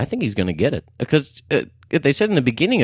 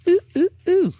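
excited whoop. Real, not acted. Excited cheering at gold.

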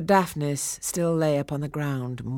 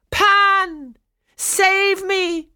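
high, loud scream for help; desperate cry; 9 dB louder, much slower than usual. A narrator's reading. Captive girl calling on Pan, high desperate cry. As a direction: cry out to the god in terror. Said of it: "Chloe cried".

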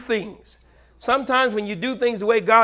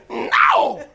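louder, a touch of the wife's affectionate voice; wife's loving reply; 3 semitones higher, 7 dB louder, slower than usual. Retold or imitated. Wife tells husband she loves him, lightly voiced proud reply. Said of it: "You get a".

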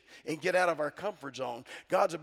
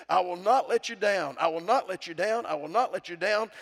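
louder, insistent vow; firm repeated promise; 5 dB louder than usual. Acted. Preacher proclaiming God's promise to the congregation. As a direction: drive the promise home.

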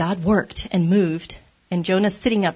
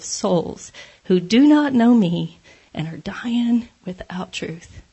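slow, weighty and louder divine reply; voice of God; 2 semitones higher, 3 dB louder, slower than usual. Acted. God answering angry Jonah, slow and weighty. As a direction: pronounce it slowly like a gentle rebuke from above.

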